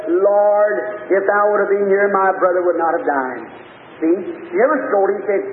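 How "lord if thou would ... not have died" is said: low, reverent retold entreaty; acted submission, pitched down; humble plea. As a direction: plead lowly, as if at someone's feet. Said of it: "she fell down at his feet and said".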